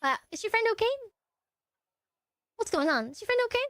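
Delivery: lightly imitating an unbothered operator; mock 911 operator. Operator checking on the caller's friend, mock unbothered. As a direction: play a slightly hushed, oblivious dispatcher. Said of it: "And he's like".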